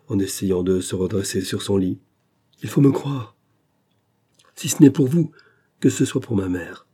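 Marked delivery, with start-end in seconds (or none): 2.6-6.9 higher, forceful cry; violent outcry. A narrator's reading. Dying man forcing the engineer to believe him, fierce cry. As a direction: fling it out fiercely. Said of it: "avec une sorte de violence".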